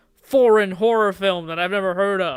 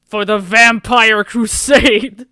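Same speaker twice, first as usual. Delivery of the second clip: much louder and slow; cheesy battle cry; 2 semitones higher, 9 dB louder, slower than usual. Acted. Three movie vampires shouting their crusade, loud battle cry. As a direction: roar the title to camera. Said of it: "look at each other and then to the camera".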